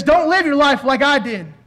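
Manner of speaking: preacher imitating a desperate plea; mock terrified warning. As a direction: warn the living as the dead man, mildly alarmed. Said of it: "the terrified voice of the deceased".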